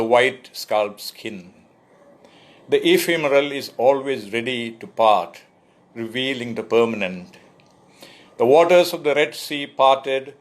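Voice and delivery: measured poetry reading, lines opened firmly; poem recitation. Acted. Poet reading "Concentration" to an online audience, measured recitation. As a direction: recite in deliberate phrases, pausing at line breaks. Reads own poem aloud.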